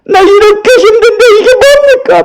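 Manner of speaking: high-pitched wail of complaint to God; hammed-up tearful protest; mock crying. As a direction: imitate someone crying out in distress. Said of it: "하나님께 울 때".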